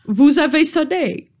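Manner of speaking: a mannered troll speaking through a put-on British accent; troll's accent. Troll addresses the bell ringer in a mock British accent. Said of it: "Très bel accent".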